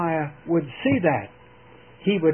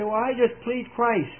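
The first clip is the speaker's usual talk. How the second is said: mock answer; 5 semitones higher than usual. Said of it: "You say".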